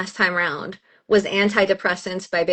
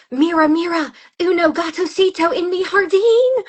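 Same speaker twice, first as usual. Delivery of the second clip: over-the-top Texan Spanish, higher; 8 semitones higher, 3 dB louder than usual. Retold or imitated. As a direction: gush in Spanish like the TikTok cat lady. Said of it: "she's like".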